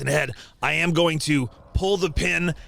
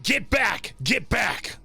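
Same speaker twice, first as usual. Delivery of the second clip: put-on Austrian accent; 4 semitones higher, slower than usual. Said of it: "I say in Austrian".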